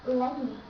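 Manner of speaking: "Let me" shortened to lemme; no T at all in "Let me"; abbreviated, T dropped. Shown as a demonstration. Teacher explains the abbreviation, T dropped. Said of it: "these words are abbreviated to".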